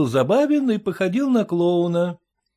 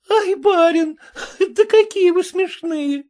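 хохоча; 10 semitones higher, 5 dB louder than usual. A narrator's reading. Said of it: "разразилась хохотом".

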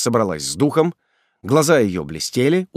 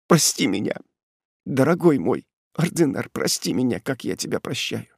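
sobbing voice; 2 semitones higher than usual. Acted. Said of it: "голосом, прерывающимся от рыданий".

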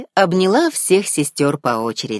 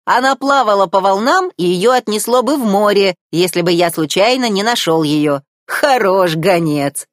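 louder, higher, scornful dig at the end; grumbling crab; 5 semitones higher, 5 dB louder than usual. A narrator's reading. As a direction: scold the useless messenger. Sebastian grumbles at seagull.

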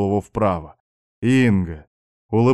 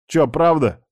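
higher-pitched worried question on правда; mildly dismayed; 6 semitones higher, 3 dB louder than usual. A narrator's reading. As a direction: ask правда as if caught out, dismayed. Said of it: "расстроился я".

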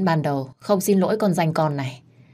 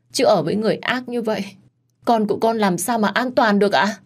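wailing complaint; 3 semitones higher than usual. Acted. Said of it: "bù lu bù loa lên".

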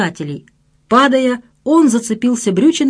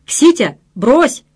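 barked order; 4 semitones higher, much slower than usual. Acted. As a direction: bark at him to drop it. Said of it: "рявкнул их представитель".

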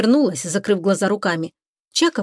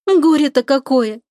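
sniffling grief; 5 semitones higher, 4 dB louder, slower than usual. A narrator's reading. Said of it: "опять шмыгнула носом Лика".

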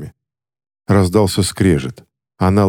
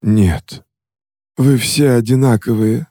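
higher, contemptuous spit; spitting contempt; 4 semitones higher than usual. Acted. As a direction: spit the words out. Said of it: "сплюнул Иоанн Ри".

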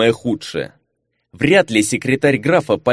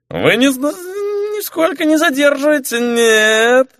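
put-on much higher, drunk insistence; drunken protest; 13 semitones higher than usual. Marquis stalls the informant with drunken insistence. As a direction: overeager tipsy denial.

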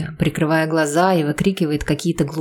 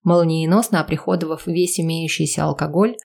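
ordinary delivery, nothing marked

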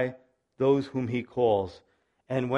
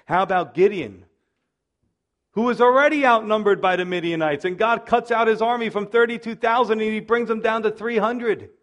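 building fervor; 6 semitones higher, 5 dB louder than usual. Real, not acted. Preacher builds Gideon story.

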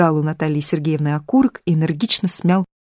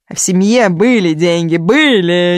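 insistent; 6 dB louder, slower than usual. Acted. Natali insists on family money.

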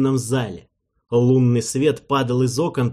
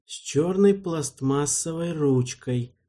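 slowly; 4 dB quieter than usual. Acted. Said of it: "медленно сказал он".

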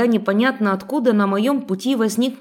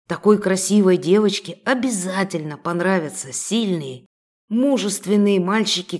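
menacing thug voice. Acted. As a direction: lean in and menace her. Thug threatens heroine.

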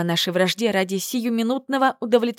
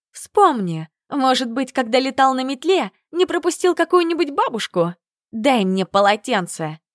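higher, mocking sarcasm; sarcastic jab; 5 semitones higher, 3 dB louder than usual. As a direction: needle him with scorn. Язвительная перепалка. (язвительная насмешка)

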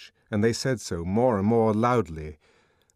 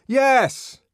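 loud refusal; 11 dB louder than usual. Acted. Refusing through a locked door.

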